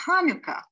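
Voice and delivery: Hanukkah with a throaty ch at the start; guttural chet. Shown as a demonstration. Teacher showing chet in a word. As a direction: open Hanukkah with a rasped ch. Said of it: "have a chet with is".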